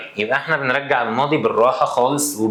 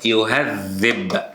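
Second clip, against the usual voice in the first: slow dictation; much slower than usual. Shown as a demonstration. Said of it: "لما أقول كلمة".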